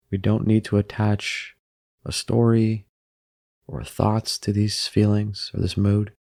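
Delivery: unhurried meditation guide with long pauses; calm, even delivery, leaving room to breathe; guided meditation. Acted. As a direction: guide them gently into stillness, phrase by phrase.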